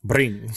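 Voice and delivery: "Bring" with a bold, exaggerated British R. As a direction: hit the R in "Bring" like a British waiter. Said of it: "I love his bold R's".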